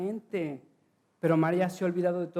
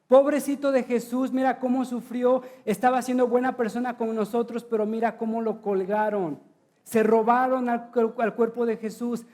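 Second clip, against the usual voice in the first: mock pity; 2 semitones higher than usual. Mock lament over dead Jesus.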